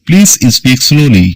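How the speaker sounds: drawn out word by word for learners; slow classroom dictation; very slow model sentence. Shown as a demonstration. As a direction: read it slowly like a dictation. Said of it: "English model sentence, slowed".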